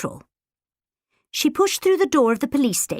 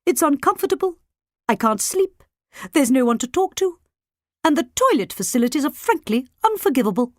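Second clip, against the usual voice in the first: weak, tired voice; 5 semitones higher, faster than usual. A narrator's reading. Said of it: "in a weak, tired voice".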